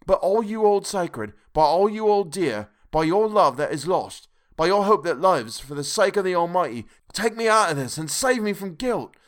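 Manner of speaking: high, loud, begging through tears; desperate tearful pleading. A narrator's reading. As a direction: plead for your life and soul, voice straining high. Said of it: "poured forth a torrent of entreaty".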